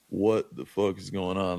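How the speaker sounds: slow, stretched-out bafflement; replaying stunned confusion, slowly; retold disbelief. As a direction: space the words out in disbelief. Retold disbelief back at hotel.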